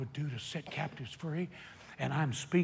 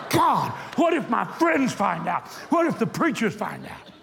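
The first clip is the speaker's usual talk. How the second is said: slow, louder, amused worry; mock-worried prayer through a laugh; laughing mock panic; 6 semitones higher, 8 dB louder than usual. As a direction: play up the fear for laughs.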